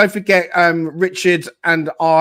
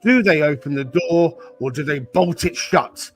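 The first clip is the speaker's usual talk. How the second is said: horror show narration. A narrator's reading. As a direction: narrate like a campfire ghost story, lingering on the dark words. Spooky Halloween intro narration.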